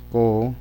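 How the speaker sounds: co-mi-co spoken one syllable at a time; syllables split. Shown as a demonstration. Teacher spelling out cómico by syllables. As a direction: space out each syllable. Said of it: "si pongo yo cómico".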